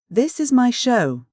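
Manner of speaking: excited declaration. A narrator's reading. Gwenna announces treat to friends.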